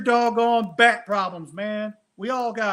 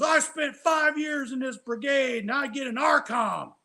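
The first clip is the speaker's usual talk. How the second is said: higher, slower aggrieved outburst; indignant complaint; 6 semitones higher, slower than usual. Retold or imitated. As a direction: vent like he was cheated. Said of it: "He goes".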